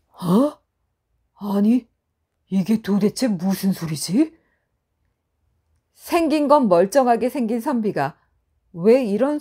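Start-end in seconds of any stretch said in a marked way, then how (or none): 0.1-4.4 puzzled. Acted. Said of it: "어리둥절해졌답니다".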